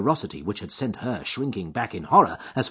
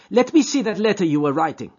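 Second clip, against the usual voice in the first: put-on high, louder voice of an anxious girl; young woman, distressed; 10 semitones higher, 8 dB louder, faster than usual. A narrator's reading. Etty questioning Jack's guilty fear, high distressed voice. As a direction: press him, hurt and suspicious.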